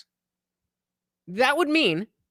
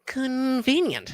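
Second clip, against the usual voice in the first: sarcastic; 2 semitones higher, much slower than usual. Real, not acted. Sarcastic slow one-word jab.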